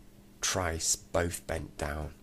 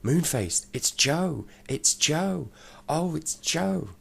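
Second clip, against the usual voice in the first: higher, louder excited shouting; loud yell; 11 semitones higher, 6 dB louder, slower than usual. A narrator's reading. Sisters recognising their brother Joe, loud joyful yelling. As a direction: yell his name in delighted shock. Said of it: "yelled out loudly".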